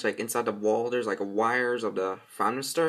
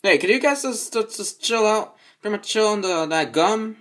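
higher, annoyed telling off; raised, exasperated; 6 semitones higher than usual. Acted. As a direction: tell them to chill out. Telling others to chill.

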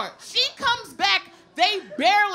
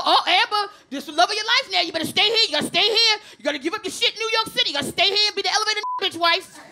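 pushy townsfolk; 3 semitones higher, faster than usual. Retold or imitated. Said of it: "they go".

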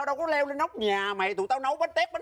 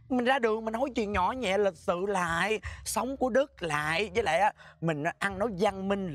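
slow admonishing; 3 semitones lower than usual. Acted. Repeats lesson on gentle polite speech.

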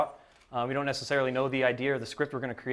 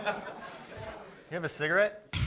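slow sexy voice; 5 semitones higher, 6 dB quieter, much slower than usual. Pretend. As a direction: stretch every word out seductively. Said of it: "can you talk really slow".

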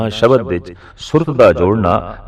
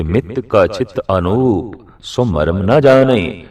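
slow, measured sacred quotation; verse recitation; slower than usual. Acted. Preacher answers his own question with scripture, slow recitation. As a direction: stretch the verse out gently in pace.

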